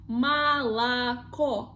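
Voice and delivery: молоко drawn out as ma-la-KO; slow model pronunciation. Shown as a demonstration. Teacher showing learners the vowel rule, молоко slowly as ma-la-KO. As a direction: say молоко slowly, "ah" twice, then stressed O. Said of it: "previous ones we pronounce like A".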